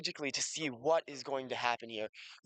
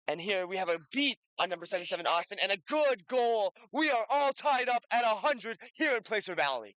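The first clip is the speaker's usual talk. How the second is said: excited play-by-play; 5 semitones higher, 3 dB louder, faster than usual. Real, not acted. Goal called in live play.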